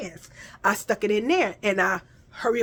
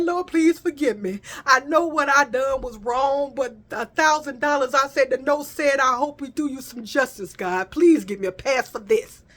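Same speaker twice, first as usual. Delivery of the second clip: mock prayer; 3 semitones higher than usual. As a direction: beg the Lord half-jokingly. Prayer to God.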